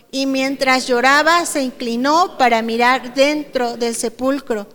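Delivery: measured Bible reading voice; scripture reading. Acted. Preacher reading John twenty to the congregation, measured reading. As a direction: read the passage steadily to the church.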